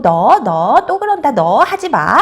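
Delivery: playful dad's telling-off; acted, half-serious warning; mock scolding. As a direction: scold the child teasingly, pitch rising. Dad mock-scolding at the door.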